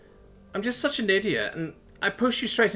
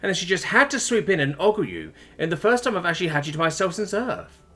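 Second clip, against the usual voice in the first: high, tearful wailing; acted sobbing; 9 semitones higher than usual. A narrator's reading. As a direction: blurt it out as if through sobs. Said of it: "she managed between gasping sobs".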